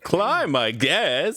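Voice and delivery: casual, offhand mock indifference; totally unconcerned. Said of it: "Yeah, totally unconcerned".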